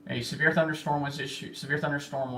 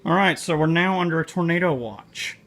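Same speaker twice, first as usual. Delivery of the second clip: louder, urgent, keyed up; alarmed excitement; 5 semitones higher, 12 dB louder than usual. Real, not acted. Storm chaser telling viewers the watch just came, alarmed and louder. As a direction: sound the alarm as the storm builds. Storm alert during live stream.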